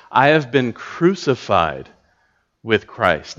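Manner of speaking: "crucified" weighted and lingered on; stress on crucified. Shown as a demonstration. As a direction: dwell on the word "crucified". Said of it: "look at that word crucified".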